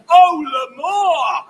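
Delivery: drawn-out passionate cue. Acted. Poem cue line.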